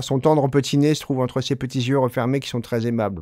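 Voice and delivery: quick, light reading of the French version; reading the translation. Shown as a demonstration. Teacher reading the French line to compare its sound. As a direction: read it out so they hear the sound. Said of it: "écoutez juste ce petit vers".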